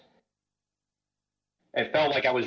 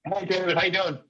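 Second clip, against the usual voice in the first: processed voice through a headset; like talking through a voice changer; voice modulator; 6 semitones higher than usual. Real, not acted. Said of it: "You sound like you're talking through a voice modulator".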